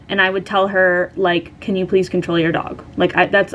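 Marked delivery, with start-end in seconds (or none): 1.6-2.8 calm, even polite request. Retold or imitated. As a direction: retell it evenly, without raising your voice. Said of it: "I would just say it very calmly".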